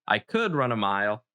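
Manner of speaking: "could" leicht betont und zögernd; "could" mit offenem Ende, als käme ein Aber; stress on could. Shown as a demonstration. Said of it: "there should be a but at the end".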